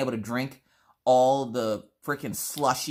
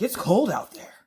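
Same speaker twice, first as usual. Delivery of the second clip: raised, loud mimicked husband; mock complaint; 6 semitones higher, 3 dB louder than usual. Husband coming in over the clean floor, mock complaint. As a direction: imitate a husband whining about the cold.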